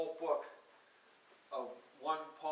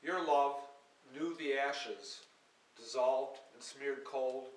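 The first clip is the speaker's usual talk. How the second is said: measured, lyrical poetry recital; poem reading; 4 dB louder than usual. Acted. Poet reading her verse to an audience, measured and lyrical. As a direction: read each line like verse to a hall.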